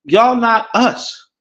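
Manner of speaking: slow, drawn-out, lightly voiced outsider brushing them off; mock dismissive quote. Caribbeans told they don't belong, slow mock snub. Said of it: "they said".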